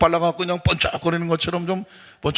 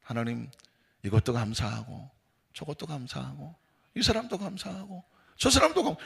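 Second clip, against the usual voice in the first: soft, hushed listing of thanks; thankful prayer; 8 dB quieter than usual. Acted. Believer thanking God for everything, soft prayer. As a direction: murmur gratitude as if praying.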